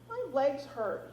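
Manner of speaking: put-on high, slow childish whine; whining toddler. A narrator's reading. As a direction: whine like a tired little boy. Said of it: "he whines".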